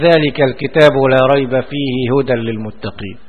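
ذلك الكتاب لا ريب فيه هدى للمتقين read in one unbroken breath; no pause. Shown as a demonstration. Teacher showing that reading without a stop is fine. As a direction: run straight through the verse with no stop. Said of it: "دون أن يقف".

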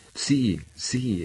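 forceful exclamation. A narrator's reading. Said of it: "esclamò Sandokan con maggiore forza".

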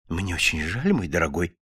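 low, soft apologetic murmur; meek babble. A narrator's reading. Wife apologising to her husband for the cutlets, meek. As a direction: apologise timidly and softly, well under his level. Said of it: "пролепетала миссис Корнер".

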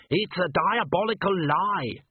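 high, drawn-out dwarf protest; indignant shout. A narrator's reading. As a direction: cry it out indignantly, pitched high. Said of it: "shouted Gimlet from somewhere under".

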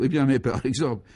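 a touch of pleased surprise; delighted recognition. Acted. Léon suddenly recognises his old friend Ludovic, mildly delighted surprise. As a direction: brighten as it dawns who this is. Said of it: "son visage s'éclaira tout à coup".

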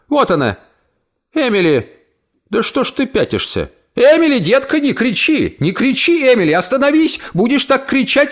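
put-on high, anxious pleading old woman; alarmed old aunt. Aunt begs screaming Emily to calm down, high and anxious. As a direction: plead with the frightened girl.

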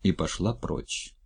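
usual speaking voice

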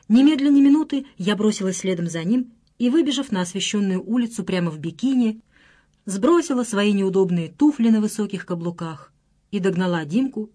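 plain reading voice

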